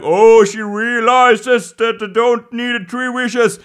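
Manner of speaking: high, loud, drawn-out exclamation; mock-excited crowd. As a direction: proclaim it like an amazed onlooker. Everyone exclaiming in retold film plot.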